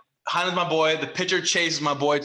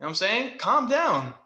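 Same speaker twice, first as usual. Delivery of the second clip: drawn-out, pitched-up "relax, take it easy"; retold calming down; 4 semitones higher, slower than usual. Batter telling the pitcher to be patient, drawn-out mock calming. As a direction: imitate someone telling a rival to chill, stretching the words.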